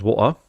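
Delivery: "water" with a clear t and no final r; variant of "water". Shown as a demonstration. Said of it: "now I sometimes say".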